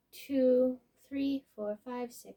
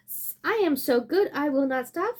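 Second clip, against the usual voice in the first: boasting tiger; 6 dB louder than usual. Acted.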